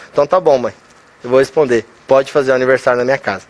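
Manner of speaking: low-pitched, calm giving-in; conciliatory. Retold or imitated. Son agreeing to host his mother's birthday, conciliatory. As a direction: reassure her, pitch sinking low.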